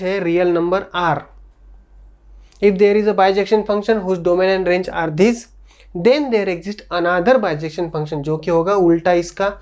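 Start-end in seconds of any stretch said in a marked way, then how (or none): 2.6-8.2 slow, word-by-word dictation of a definition; dictating to the class. Shown as a demonstration. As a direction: read it out slowly so students can write. Teacher dictates definition slowly.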